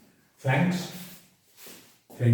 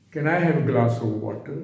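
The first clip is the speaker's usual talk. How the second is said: slow, "glass" and "water" stressed, tone easing down. Shown as a demonstration. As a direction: lean gently on "glass" and "water". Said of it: "glass और water पे जोर दे रहा हूँ, tone नीचे आ रही है।". ("glass" और "water" पर ज़ोर, टोन नीचे लाते हुए)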